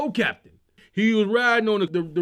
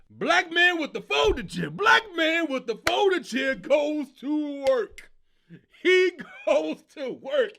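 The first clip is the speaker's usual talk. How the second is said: announcer shout; 5 semitones higher, slower than usual. Acted. Announcing the folding chair hero.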